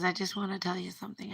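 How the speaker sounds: soft whisper, close and tender. Retold or imitated. Boyfriend whispers to her in the car, tender. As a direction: breathe it like a secret.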